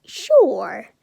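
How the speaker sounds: drawn-out, uncertain answer; hesitant pause. Acted. Izuku pauses before answering Ida, hesitant. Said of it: "pauses there like".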